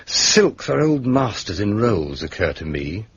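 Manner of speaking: measured letter dictation with deliberate pauses; composing a letter aloud. Acted. Inspector drafting questions to Superintendent Yeo, measured dictation. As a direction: set out each numbered question separately, pausing between them.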